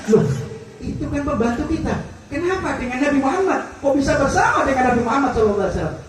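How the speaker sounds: high, loud startled question; a master shocked to see his servant with the Prophet; astonished outcry; surprised exclamation. Acted.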